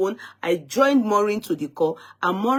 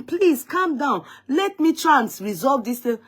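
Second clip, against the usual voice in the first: higher, slow, imitating a plea; slow pleading; 5 semitones higher than usual. Host retelling how she begged the caller to calm down, slow higher pleading. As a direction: soothe her slowly, begging her to settle. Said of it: "that's how I was talking".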